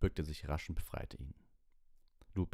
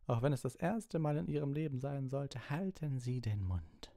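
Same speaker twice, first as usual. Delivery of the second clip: high, tense scolding; high rant slowing on the final order; angry telling-off; 10 semitones higher than usual. A narrator's reading. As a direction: scold them as a furious teacher. Snape furiously tells off the pupils.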